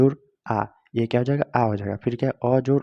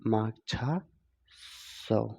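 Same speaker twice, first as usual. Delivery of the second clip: माक्षा and सौ split by a long pause; word broken in two while writing it out; slow dictation; 5 dB quieter, much slower than usual. Shown as a demonstration. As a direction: say माक्षा, then सौ, piece by piece. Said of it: "तो क्या हो जाएगा?".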